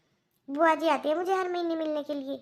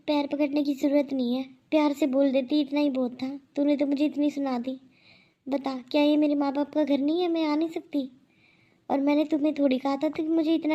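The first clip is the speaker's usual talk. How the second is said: louder, hurt and reproachful; hurt complaint; 4 dB louder than usual. Acted. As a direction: scold her with hurt pride. Aunt hurt, complaining loudly. (आहत होकर ऊँची आवाज़ में शिकायत करती बुआ)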